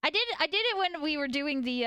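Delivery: usual speaking voice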